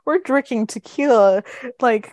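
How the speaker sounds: rally everyone to party; excited. Retold or imitated. Retelling a dad hyped to celebrate, excited call. Excited father proposing tequila.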